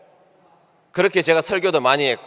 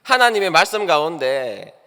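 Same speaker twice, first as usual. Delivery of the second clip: rising sermon fervor; 4 semitones higher, 4 dB louder than usual. Acted. Preaching the lesson at the close.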